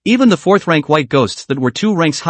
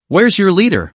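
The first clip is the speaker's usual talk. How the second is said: lightly raised call; mild yell; 3 semitones higher than usual. Acted. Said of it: "as she screamed".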